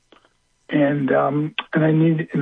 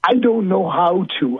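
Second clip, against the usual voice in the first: higher, slow, distressed voice; retold tearful helplessness; 5 semitones higher than usual. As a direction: imitate her helpless reply, drawn out. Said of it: "she started crying hysterically".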